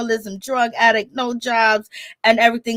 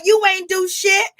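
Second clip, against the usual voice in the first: mock angry retort; 8 semitones higher than usual. She snaps at her father.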